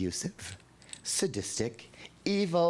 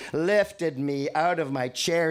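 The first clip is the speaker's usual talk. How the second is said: usual speaking voice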